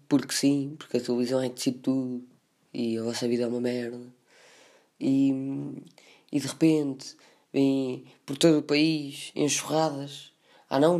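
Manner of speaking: hammy melodrama, slowed down; dramatic voice. Acted. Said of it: "eu vou continuar com esta voz dramática". (voz dramática teatral)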